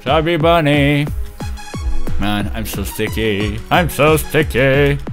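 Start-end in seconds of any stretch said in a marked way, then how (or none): 0.0-1.1 talking through marshmallows; mouth full. Real, not acted. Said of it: "every time I die".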